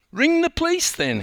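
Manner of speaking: put-on very high, loud fussing old woman; shrill old lady. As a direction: insist in alarm.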